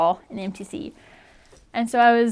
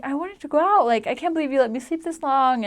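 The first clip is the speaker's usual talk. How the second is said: upset complaint; 5 semitones higher than usual. Retold or imitated. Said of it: "I was really upset".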